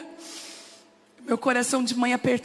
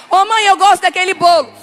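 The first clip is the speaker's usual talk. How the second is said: put-on louder, higher child's plea; lightly voiced child; child asking mum; 5 semitones higher, 10 dB louder than usual. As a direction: play the kid who loves mum's cooking. Voicing child asking mother.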